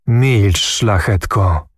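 plain reading voice

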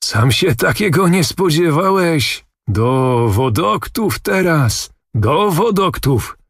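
put-on a jovial old nobleman bringing good news, slowly; Zagłoba's voice. A narrator's reading. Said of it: "wołał pan Zagłoba".

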